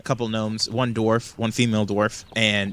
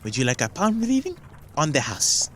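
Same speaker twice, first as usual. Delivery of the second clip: crooked-smile gnome offer; 4 semitones higher than usual. Acted. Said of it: "crooked smile and says".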